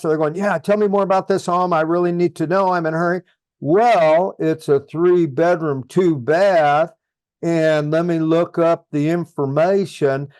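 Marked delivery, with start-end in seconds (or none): 0.3-3.2 quick, impatient buyer asking; hurried client. Retold or imitated. Buyer in a hurry pressing the agent, quick and impatient. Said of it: "if they're talking really fast". 3.6-10.3 unhurried, plodding agent reply; talking too slow. Shown as a demonstration. Agent answering a rushed buyer, slow and plodding. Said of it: "this guy's a little slow".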